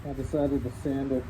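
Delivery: muffled behind a dust mask; speaking through a face mask. Real, not acted. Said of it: "hear me through the mask".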